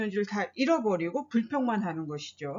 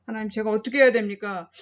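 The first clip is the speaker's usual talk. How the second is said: louder, fast desperate plea to God; 하나님, 제가 어떻게 해야 됩니까 said louder and faster as a pleading cry; crying out in prayer; 5 dB louder, faster than usual. Acted. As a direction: cry out to God, pushing the words. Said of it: "울부짖으면서 기도하죠".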